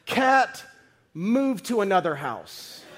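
laughing mock order to the cat; half-laughing bossy order; joking command. Preacher joking about ordering a cat away, laughing. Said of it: "Or you could say".

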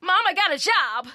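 giddy new hire in a fifties sitcom; 1950s sitcom voice. Acted. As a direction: play a naive fifties TV kid. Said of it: "I sound like a nineteen fifties Leave It to Beaver".

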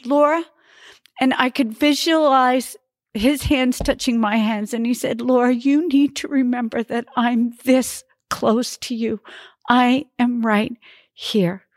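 tender voice of God. Retold or imitated. God comforting Laura during prayer, tender and gentle.

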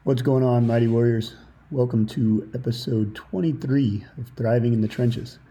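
muffled under a towel; talking with a towel draped over head. Real, not acted. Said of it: "I find myself sitting in a little office space with a towel over my head".

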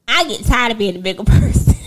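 breaking into a laugh mid-sentence; laughing complaint. Real, not acted. Venting about always being the bigger person, laughing. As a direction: start the complaint, then crack up.

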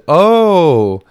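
mock cheerful text read aloud; mock sweet reply. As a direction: lay on fake sweetness. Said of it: "I said".

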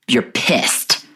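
unvoiced whisper; low whisper, self-talk. Real, not acted. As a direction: whisper "you're pissed" to yourself.

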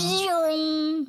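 zoom sound. Retold or imitated. Car speeding away.

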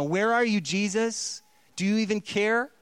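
mild anguished reproach; pleading complaint. Retold or imitated. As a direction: cry out to a sleeping Jesus. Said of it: "the disciples say".

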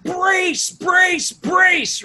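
high, loud repeated order; retold yell. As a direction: bark the brace command in alarm. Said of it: "she yells".

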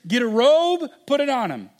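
father calling for robe, eager; eager command. Acted. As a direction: hurry them along with joy. Father orders servants in story.

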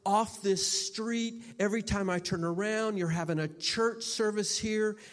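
retold angry complaint; angry neighbor. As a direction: imitate the neighbor's angry outburst. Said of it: "He's angry".

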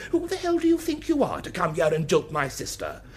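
outraged demand, re-enacted; indignant challenge. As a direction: retell the row with rising indignation. Retold quarrel over jilted sister.

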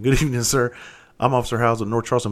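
officer's greeting breaking into a laugh; polite police greeting with a laugh slipping out; laughing through it. Shown as a demonstration. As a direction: try to stay formal but crack up. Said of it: "I went just like this".

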